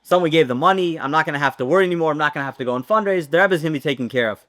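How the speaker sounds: quick, mildly excited chatter, rushed; the helper rushing out his relief, a touch giddy. Retold or imitated. Helper in the shul, relieved the money came, speaks fast and mildly excited. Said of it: "was all excited".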